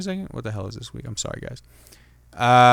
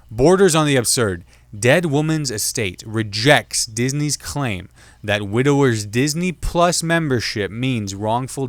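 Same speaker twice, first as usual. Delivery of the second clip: slow, deliberate headline reading; slower than usual. Shown as a demonstration. Reading a news headline to listeners, slow and deliberate. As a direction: read it out slowly like a news headline. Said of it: "I'm just gonna read the headline here".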